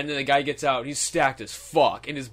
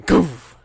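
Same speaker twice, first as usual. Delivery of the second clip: loud whooshed impact sound; breathy vocal crash effect; imitated crash noise; 8 dB louder than usual. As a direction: mimic the thud of a car crash. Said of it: "all I hear is".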